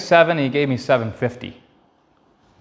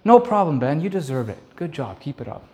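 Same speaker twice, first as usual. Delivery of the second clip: gentle praise; 2 semitones higher than usual. Retold or imitated. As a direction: boss praising boy, gently fading. Boss gently praising boy.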